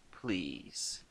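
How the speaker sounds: soft, brushing it off; dismissive. A narrator's reading. Reese to Lucas, dismissive and soft. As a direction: wave the worry away quietly. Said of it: "she said in a tone of dismissal".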